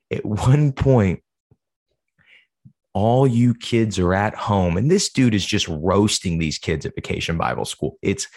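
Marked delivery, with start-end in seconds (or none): 0.1-4.8 wrestling promo voice. Retold or imitated. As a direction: cut a mock wrestling promo at the kids. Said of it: "He said".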